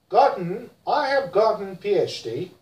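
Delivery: American gotten, flapped t; American accent. Shown as a demonstration. Teacher models American gotten: American accent. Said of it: "In America".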